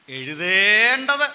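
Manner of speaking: "എഴുതേണ്ടത്" drawn out loud and high; slow, loud teacherly stress on "എഴുതേണ്ടത്"; emphatic term. Shown as a demonstration. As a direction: stretch and punch "എഴുതേണ്ടത്".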